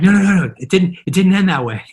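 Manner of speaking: high, loud retold protest through laughter; hasty laughing denial. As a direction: backpedal fast to calm an alarmed wife. Hastily reassuring alarmed wife, laughing.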